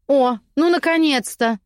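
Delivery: relieved cry from the cell; lady's voice. Acted. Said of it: "раздалось в глубине темноты".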